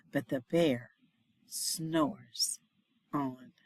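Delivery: slow sleepy refrain. A narrator's reading. Refrain slowed and softened.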